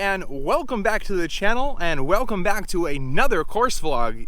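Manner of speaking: loud, bright, high-energy host greeting; upbeat YouTuber intro. Acted. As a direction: pump up the viewers at the start. Channel intro to camera.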